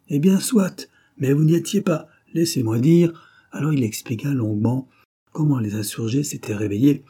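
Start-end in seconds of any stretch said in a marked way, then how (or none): 0.1-3.1 high, loud and eager, cutting in; quick exclamation. A narrator's reading. Roudier cutting in to tell it himself, eager exclamation. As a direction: jump in quickly to claim the floor. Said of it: "s'écria d'une voix prompte".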